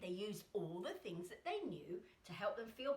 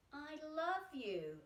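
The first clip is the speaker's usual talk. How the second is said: tender self-hug; 5 semitones higher, slower than usual. Shown as a demonstration. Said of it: "we say to ourselves".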